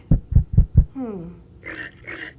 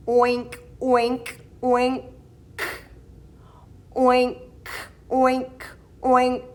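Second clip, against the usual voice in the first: oinking; slower than usual. Acted. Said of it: "A piggy says".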